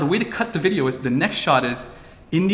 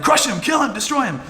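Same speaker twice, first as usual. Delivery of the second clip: inner fan voice; 10 semitones higher than usual. Retold or imitated. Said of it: "But inside I was like".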